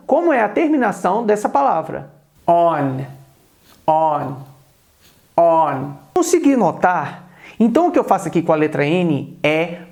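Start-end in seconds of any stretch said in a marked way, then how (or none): 2.5-5.9 "on" ending on a held tongue-tip n; clipped final n. Shown as a demonstration. Teacher moves close to show the ending, careful. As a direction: stop the "on" with the tongue on the roof of the mouth. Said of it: "chegar mais perto da câmera pra você perceber".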